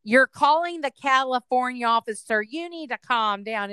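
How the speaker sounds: loud, firm, measured official; Enterprise agent voice. Retold or imitated. Prankster agent correcting an irate caller, firm official voice. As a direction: put your foot down as a customer-service agent. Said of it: "I'm still in my voice for Enterprise".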